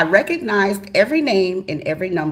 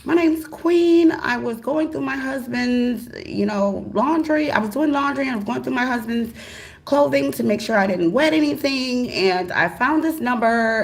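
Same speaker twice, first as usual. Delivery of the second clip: sweet phone voice; 7 semitones higher than usual. Retold or imitated. Calling a stranger's number, high and overly polite. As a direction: put on your sweetest voice for a stranger. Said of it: "And I'm like".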